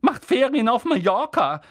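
brusque aunt to husband; gruff. A narrator's reading. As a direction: snap it off. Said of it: "sagte Tante Petunia barsch".

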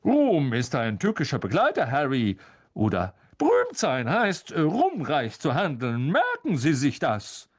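a hint of pompous lecturing; lightly voiced Lockhart. Lockhart lecturing Harry on fame, lightly pompous. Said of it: "fing er einen Satz auf wie".

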